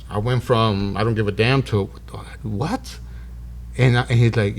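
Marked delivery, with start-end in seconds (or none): 1.0-1.6 low, offhand dismissal; indifferent. Retold or imitated. Patient showing his attitude before the revelation, indifferent. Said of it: "my energy changed". 2.4-3.0 soft, rising question of disbelief; stunned. Retold or imitated. Patient learning who saved him, stunned. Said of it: "my energy changed".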